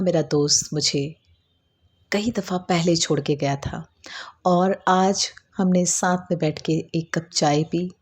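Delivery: unhurried meditation narration with pauses; guided meditation. Acted. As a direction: guide the listener gently through an imagined scene. Leads a guided meditation story.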